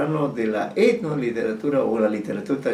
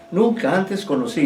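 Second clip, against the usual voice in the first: Nunca antes conocido, with a firm stress on conocido; emphatic correction; 5 semitones higher than usual. Shown as a demonstration. Teacher correcting the student's misreading of conocido. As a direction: correct the word firmly, hitting conocido. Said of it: "Conocido, conocido".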